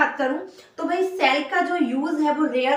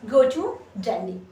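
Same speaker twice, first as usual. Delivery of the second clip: slow dictation; 2 semitones lower, much slower than usual. Shown as a demonstration. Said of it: "तो मैं बोलूंगी I".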